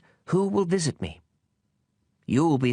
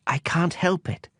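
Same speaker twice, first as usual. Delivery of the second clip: embarrassed; 5 semitones higher than usual. Acted. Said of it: "quite embarrassed".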